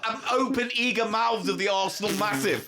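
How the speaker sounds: laughing crude rant. Real, not acted.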